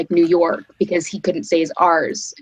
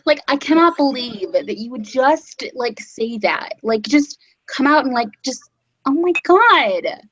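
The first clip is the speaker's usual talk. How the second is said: put-on high, outraged Valley Girl accent; 7 semitones higher than usual. Mocking the Valley Girl accent, outraged at a friend. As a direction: shriek it like an offended Valley Girl. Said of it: "That's a pretty good Valley Girl accent".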